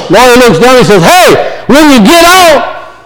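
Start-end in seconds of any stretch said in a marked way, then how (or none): 1.0-2.9 high-pitched, emphatic sales offer; acted calling down. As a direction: call your pitch down to someone below. Lawyer calls pitch into pit.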